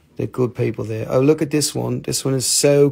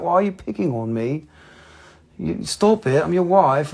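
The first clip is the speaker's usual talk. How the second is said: lightly voiced complaining wife, a bit higher; wife's complaint; 5 semitones higher than usual. Wife scolding husband for picking on her, mock complaint. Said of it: "She's like".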